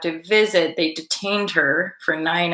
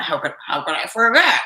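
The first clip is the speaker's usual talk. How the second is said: put-on quick burst of Scottish accent. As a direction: slip into a playful Scottish accent. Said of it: "The Scottish accent".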